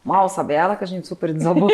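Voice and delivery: rueful laugh through the words; wry chuckle at the memory. Real, not acted. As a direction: laugh it off, a bit sad. Laughing at own irony.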